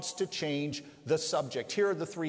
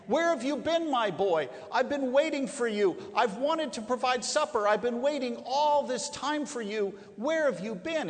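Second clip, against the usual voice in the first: put-on higher, louder, flustered auntie fussing over the boy; Aunt Sally frets at the returning boy, agitated and higher; 6 semitones higher, 3 dB louder than usual. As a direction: gush at him like a worried aunt. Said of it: "somewhat agitated".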